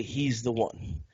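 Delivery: low, hushed mock accusation; quietly finger someone, imitating a snitch. Acting out snitch telling officer.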